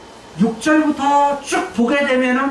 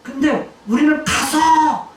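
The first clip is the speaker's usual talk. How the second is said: God's command; 4 semitones higher, slower than usual. Acted. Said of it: "뭐라고 대답하냐면".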